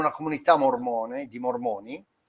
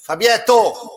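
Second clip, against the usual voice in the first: calling out; 2 semitones higher, 5 dB louder, much slower than usual. Acted. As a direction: call out a name loudly. Calling out to Fabietto.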